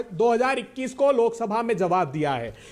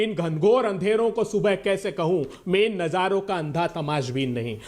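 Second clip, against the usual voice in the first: poetry recital; 6 semitones lower than usual. Real, not acted. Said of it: "और मेरे लिए बता दूं".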